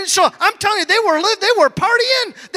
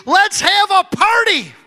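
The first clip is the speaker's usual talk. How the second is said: excited proclamation; 3 semitones higher than usual. Real, not acted. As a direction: announce the party with delight. Preacher proclaims party.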